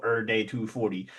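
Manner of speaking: "Er day", every cut down to er; deliberate slurred "er day". Shown as a demonstration. Streamer quoting his catchphrase, deliberate "Er day". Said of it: "That's on purpose".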